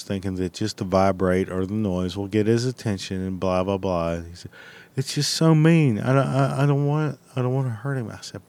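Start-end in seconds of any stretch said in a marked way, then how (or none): 5.0-8.1 lightly voiced worried protest, pitched higher; mock reluctant relative. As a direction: put on a higher-pitched pleading objection.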